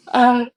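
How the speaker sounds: yawn. Real, not acted. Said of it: "oh, excuse me".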